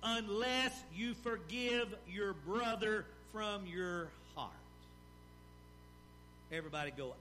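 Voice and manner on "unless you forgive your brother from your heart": slow, grave verse reading; weighty pulpit reading of the verse; solemn scripture reading. Acted. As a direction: let the warning land slowly. Reads verse thirty-five solemnly.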